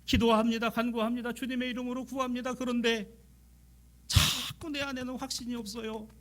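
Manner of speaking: high, urgent sermon cry; pleading preaching. Acted. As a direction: cry out the prayer's doubt. Impassioned preaching of prayer. (높고 절박한 설교조)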